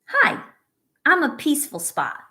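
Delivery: sweet storybook voice saying hi; peaceful spot voice. Acted. Teacher reading to her class as the peaceful spot, bright and high.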